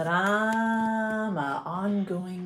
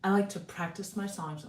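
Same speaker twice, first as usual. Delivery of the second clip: chewing gum while talking; mouth full; 4 dB quieter than usual. Real, not acted. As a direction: talk round a piece of gum. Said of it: "I still have gum in my mouth".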